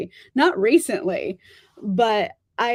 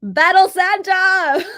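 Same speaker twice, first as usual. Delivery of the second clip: gleeful exclamation; 8 semitones higher, 8 dB louder, slower than usual. Real, not acted. Gleeful callback to her nickname.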